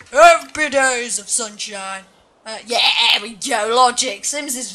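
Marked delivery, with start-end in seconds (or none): 0.1-2.0 mock cheerful character. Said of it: "She's just sinking in the sand going".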